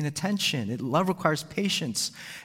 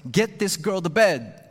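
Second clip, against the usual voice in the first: impatient thought; 6 semitones higher, 5 dB louder, slower than usual. Retold or imitated. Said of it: "All that was on my mind was".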